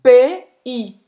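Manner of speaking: "P" then "I", each sound said apart and loud; spelling it out. Shown as a demonstration. Teaching how to say "pays", sound by sound. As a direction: break "P I" into two separate loud sounds. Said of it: "então você vai falar assim".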